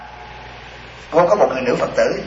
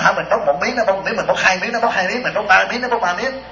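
higher-pitched, singsong indignant tally; mock indignation; 4 semitones higher than usual. Woman fuming over the shared French fries, mock indignation. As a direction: imitate someone counting up an outrage. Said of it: "Rồi bà nói".

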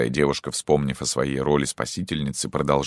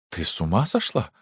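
stunned; 4 semitones higher than usual. Acted. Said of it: "Поражённая маркиза повторяла".

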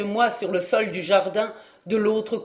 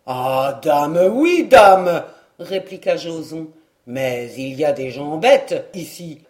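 put-on louder rough country boy, cheeky and breathless; a brash young peasant shoving through the crowd; rustic lad, loud; 3 semitones lower, 4 dB louder than usual. Joson pushing through the crowd to his friends, rough and loud.

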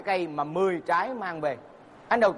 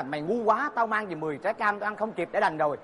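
mock angry scolding; 3 semitones higher than usual. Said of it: "anh tức lắm, anh mới chửi".

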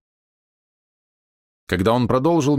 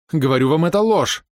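much higher, louder outburst on ложь; rising cry of denial; 9 semitones higher, 5 dB louder than usual. A narrator's reading. Repeated denial, much higher pitched. (сестра кричит, защищая брата, громко и высоко)

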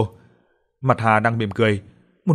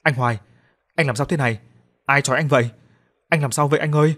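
raised, anxious calling to him; alarmed cry; 4 semitones higher, 3 dB louder than usual. Acted. Woman sees her lover tied naked, alarmed cry. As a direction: cry out at the sight of him bound. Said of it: "Cô la lên".

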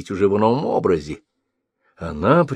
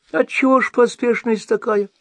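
put-on very high old woman, concerned tone; sympathetic. A narrator's reading. Old woman asks the sorcerer why he hurries, caring crone voice. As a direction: ask with feigned care. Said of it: "участливо спросила старуха".

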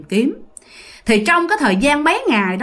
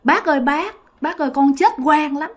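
put-on ghost boy pleading; 3 semitones higher than usual. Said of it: "thằng nhỏ này nó mới trả lời rằng á là".

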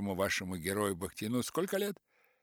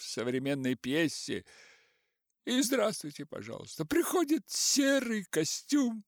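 lightly voiced offended elders, louder and higher; mock old actors; 7 semitones higher, 4 dB louder than usual. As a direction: mimic the huffy old guard. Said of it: "группа старейшин рассуждала так".

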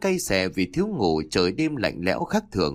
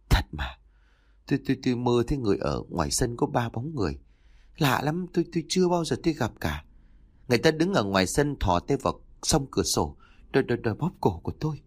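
frightened stammer; faster than usual. Acted. Terrified wife stammering her nightmare.

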